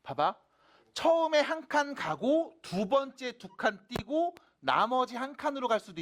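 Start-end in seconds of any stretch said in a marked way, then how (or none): none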